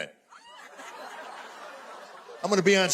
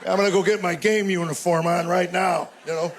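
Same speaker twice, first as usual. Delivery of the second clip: sarcastic shout. Retold or imitated. Sarcastic reply to wife.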